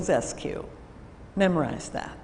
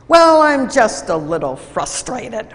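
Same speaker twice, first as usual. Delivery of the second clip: frustrated; 6 dB louder than usual. Retold or imitated. Employee grudgingly admits frustration.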